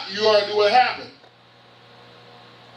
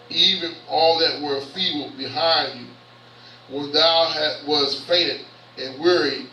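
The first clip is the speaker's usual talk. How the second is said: scripture reading; 4 semitones lower than usual. Real, not acted. Reads scripture aloud.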